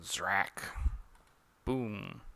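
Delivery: understated spell-blast noises; comic sound effects. Acted. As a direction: voice the panel's noises softly.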